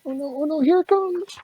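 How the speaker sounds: mock dread. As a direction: pretend panic for the kid. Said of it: "make silly sounds like".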